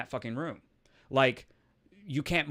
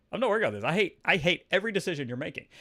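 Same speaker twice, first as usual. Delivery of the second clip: higher, heated refusal; retold angry refusal; 3 semitones higher, 3 dB louder, faster than usual. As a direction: re-enact putting your foot down. Retold refusal repeated with anger.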